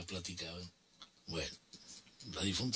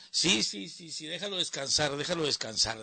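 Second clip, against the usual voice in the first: lightly higher mother insisting; compadre's mother; 5 semitones higher than usual. Retold or imitated. Mother insisting the caller let her son rest, lightly voiced. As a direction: keep the son's sleep safe, a hint of her voice. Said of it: "decía la mamá".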